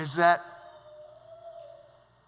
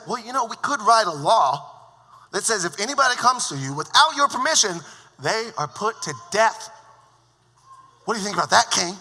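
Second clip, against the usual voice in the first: higher, louder sly adviser; scheming Haman; 4 semitones higher, 5 dB louder than usual. Retold or imitated. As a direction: pitch the idea slyly to the king. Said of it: "Probably Haman said".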